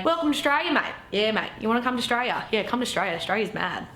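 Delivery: cheery exaggerated Australian accent; broad Aussie chat. Mates welcoming a visitor, broad Australian accent. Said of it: "So we say".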